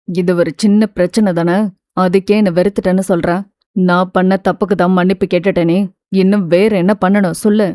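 a hint of a stung lover arguing back; lightly voiced hurt man. Siva arguing on phone. (லேசாக தாழ்ந்த ஆண் குரல், வேதனையுடன்)

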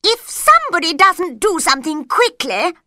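queen threatens the quarrelling court, loud; angry queen. A narrator's reading. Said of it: "said the queen".

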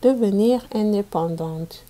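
put-on storybook reading for young pupils; reading to children. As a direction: read it out clearly for a class of kids. Teacher reads picture book aloud.

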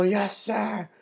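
high, acted soldier's acknowledgement; eager military reply. Soldier told to jump the cliff, eager military reply. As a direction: sound off like an obedient recruit. Soldier obeys general's order.

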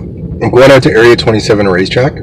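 clearer, still around a sucker; mouth full. Real, not acted. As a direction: speak past the candy. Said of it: "sorry, I have a sucker in my mouth".

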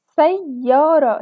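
very slow, drawn-out syllables; teacher sounding out each sound. Shown as a demonstration. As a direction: stretch the word out for children. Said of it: "سمعنا صوت حرف الياء في وسط الكلمة".

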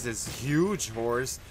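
slow, drawn-out ironic emphasis; mock correction. Joking to viewers about the tiny horse, slow mock emphasis. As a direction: stretch it out like a joke correction.

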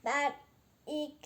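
slow stiff robot speech. Pretend. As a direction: talk like a little toy robot. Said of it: "robot sesi nasıl?".

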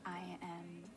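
soft, shy whisper; tender whisper. Real, not acted. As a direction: whisper it gently to him. Tender reply.

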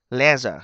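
"Leisure" with a clear short e, like "lezher"; short e vowel. Shown as a demonstration. Teacher stressing to students the e sound, clear short vowel. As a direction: model "Leisure" with an open e. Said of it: "nó âm e ha các bạn".

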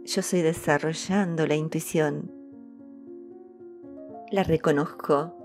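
ordinary talk, nothing marked

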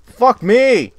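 high, loud furious curse; frustrated outburst. Real, not acted. Gamer dies again, loud high furious curse. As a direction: explode at the screen.

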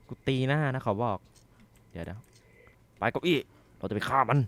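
shouted nervous threat; tense shout. Real, not acted. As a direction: bluff the monster away loudly. Arming himself with a chair.

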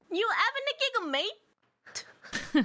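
attempted Cockney. Shown as a demonstration. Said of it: "Can you rate it?".

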